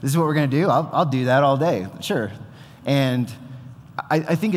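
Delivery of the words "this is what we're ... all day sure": amused disbelief. Retold or imitated. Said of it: "where I'm just like".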